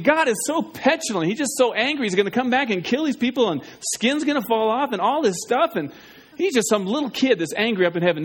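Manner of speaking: mocking skeptic. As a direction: parody the listener who thinks God is petulant. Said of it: "Some of you think".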